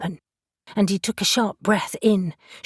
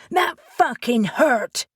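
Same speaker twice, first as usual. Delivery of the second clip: slow, higher pained yell; shouting out; 5 semitones higher than usual. Acted. Reuben jolted awake by a punch to his wound, yelling. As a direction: bellow it as the pain hits. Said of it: "he shouted out".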